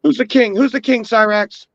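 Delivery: high, sing-song mocking taunt. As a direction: taunt him like a bully. Acting out bully taunting.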